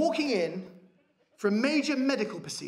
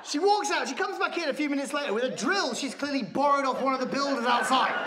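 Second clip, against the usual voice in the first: usual speaking voice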